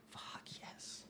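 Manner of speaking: hushed, voiceless cheer; very soft triumphant whisper; whispered celebration. Real, not acted. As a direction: whisper it as a private little victory. Celebrating under the breath with cat.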